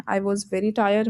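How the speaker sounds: very slow, careful model sentence; slow and clear. Shown as a demonstration. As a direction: say it slowly and clearly for learners. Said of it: "correct version देखते हैं". (धीरे और साफ़ बोलना)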